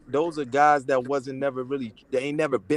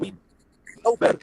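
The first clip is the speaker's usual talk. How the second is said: bad connection; faster than usual. Real, not acted. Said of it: "You're breaking up".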